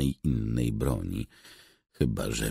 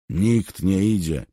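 loud, raised-voice order; calling out; 7 semitones higher, 6 dB louder than usual. A narrator's reading. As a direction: forbid them with a loud call. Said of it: "zawołał Bark". (głośny, stanowczy zakaz)

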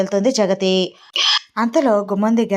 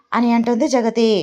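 ordinary delivery, nothing marked

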